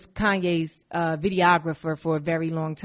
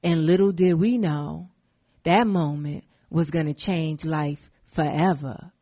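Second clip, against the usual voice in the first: mock documentary narrator; 4 semitones lower than usual. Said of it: "Cootie do the voiceover like".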